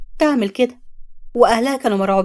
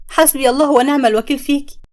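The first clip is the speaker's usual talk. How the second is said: raised, bitter curse at the traitor; 3 semitones higher than usual. Acted. Samia curses her friend Zeinab, bitter and raised. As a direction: spit the prayer at her betrayer.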